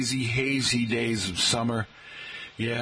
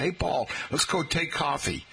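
put-on New York accent; 5 semitones higher than usual. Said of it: "Pete would say".

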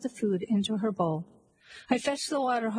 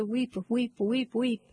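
a lightly voiced small boy calling out his trade; child's street cry; slower than usual. A narrator's reading. Small chimney sweep crying for work in the street, lightly voiced call. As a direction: call weep weep like a child sweep, only a hint of a voice. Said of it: "my tongue could scarcely cry".

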